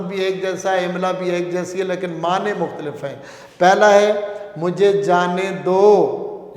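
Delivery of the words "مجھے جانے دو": "مجھے جانے دو" said slowly, each word weighted; slow emphasis. Shown as a demonstration. Teacher singling out the phrase for students, slow and deliberate. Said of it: "یعنی مجھے یہاں سے جانے دو".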